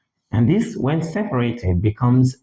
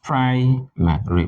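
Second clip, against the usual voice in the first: Primary with PRI raised and drawn out; stress on first syllable; 3 semitones higher, slower than usual. Shown as a demonstration. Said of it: "with the stress on the first syllable".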